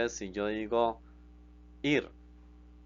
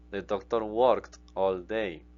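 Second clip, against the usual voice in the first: slow, deliberate English; slow model sentence; 4 dB louder, much slower than usual. Shown as a demonstration. Teacher modelling English translation slowly for students. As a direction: say each word slowly for learners. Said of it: "teacher models English translation".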